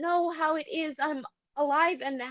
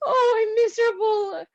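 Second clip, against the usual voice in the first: miserable; 6 semitones higher, 4 dB louder than usual. Acted. Irina weeps.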